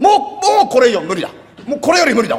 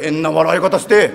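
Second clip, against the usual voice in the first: odd laugh; 5 semitones lower, slower than usual. Acted.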